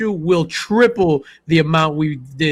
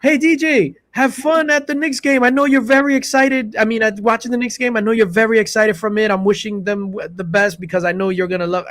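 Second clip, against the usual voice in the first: calling across lobby; 6 semitones higher than usual. Retold or imitated. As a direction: shout it across a room, ribbing him.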